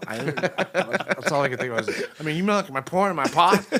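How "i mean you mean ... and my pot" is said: much higher and louder, a mock panicked squeak. To the Secret Service director, a high mock-panicked squeak. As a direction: squeak it out like a caught kid. Retelling his panicked question.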